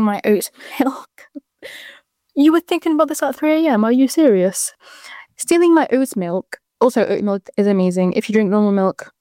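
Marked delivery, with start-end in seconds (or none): 2.4-6.6 higher, fast disbelief; can't believe they were up at three; amused shock at the timing; incredulous. Real, not acted.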